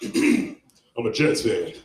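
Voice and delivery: slowed right down after clearing the throat; deliberate repeat. Retold or imitated. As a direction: repeat it slowly, word by word. Repeats it after being challenged.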